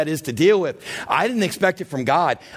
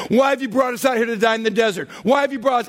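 complaining Israelites; 5 semitones higher, faster than usual. Retold or imitated. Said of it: "Eight times they've gotten to a place".

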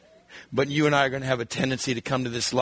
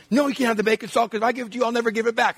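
put-on fast, higher, stubborn girl; refusing sister; 6 semitones higher, much faster than usual. Eleven-year-old sister refusing her brother, fast and stubborn. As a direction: rattle off the refusal quickly.

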